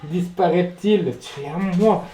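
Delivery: drawn-out, loud possessive gloat; slow gloating. Real, not acted. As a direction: savour each word. Gloating over a catch.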